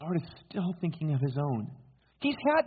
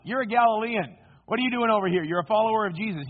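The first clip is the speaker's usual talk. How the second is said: raised, pressing accusations; confronting accusers; 7 semitones higher, 5 dB louder than usual. Acted. The crowd corners Peter over his accent, accusingly. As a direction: challenge him in a higher, louder voice.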